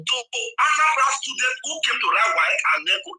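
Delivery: heated shout over the host; real shouting in an argument. Real, not acted. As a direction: yell your point across. Heated debate, caller shouting.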